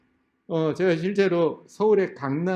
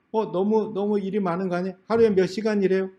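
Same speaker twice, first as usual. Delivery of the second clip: quick, higher-pitched surprised questioning; surprised applicant; 3 semitones higher than usual. Retold or imitated. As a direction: ask it fast, taken aback. Interviewee reacts surprised at hours.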